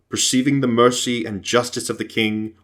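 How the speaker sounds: usual speaking voice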